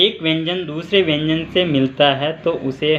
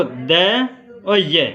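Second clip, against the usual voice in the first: slow letter spelling; 2 semitones higher, much slower than usual. Shown as a demonstration. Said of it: "इन दोनों के हम पढ़ते हैं ध".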